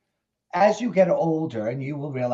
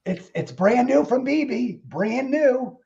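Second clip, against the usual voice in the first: campy drag queen; 9 semitones higher, 3 dB louder, slower than usual. Pretend. Showing off new wig.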